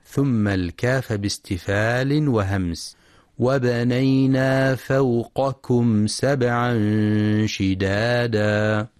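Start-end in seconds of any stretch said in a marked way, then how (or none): 3.4-8.9 فوقكم with qaf and kaf kept distinct; raised qaf, soft kaf. Shown as a demonstration. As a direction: recite فوقكم with heavy qaf and light, whispery kaf. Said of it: "القاف باستعلاء".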